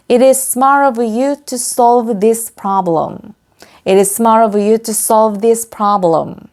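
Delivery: slow, deliberate language-teacher reading; drawn-out example sentence for repetition; slow model sentence. Shown as a demonstration. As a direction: model the sentence slowly for learners. Teacher models finished sentence twice.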